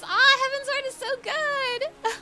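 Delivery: high, loud gushing cry; excited shout. Real, not acted. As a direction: squeal it with pure joy. Gushing about favorite expansion.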